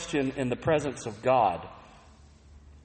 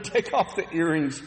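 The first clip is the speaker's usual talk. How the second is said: real chuckle breaking into the words, pitched up; higher, through a small laugh; amused; 4 semitones higher than usual. Real, not acted. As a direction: laugh while saying it. Amused at the wives' imagined reaction.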